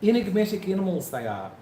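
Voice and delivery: rough attempt at a New Zealand accent; Kiwi accent. Shown as a demonstration. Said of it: "Bit ropey".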